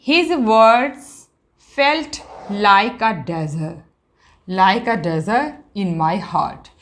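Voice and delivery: drawn-out classroom reading; slow reading aloud. Shown as a demonstration. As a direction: stretch each word for the students. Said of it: "teacher reads example sentence".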